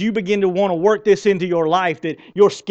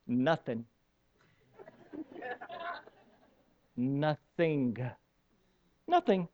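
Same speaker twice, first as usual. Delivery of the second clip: hushed emphasis; 3 semitones lower, 13 dB quieter, slower than usual. Acted. God's silence told dramatically.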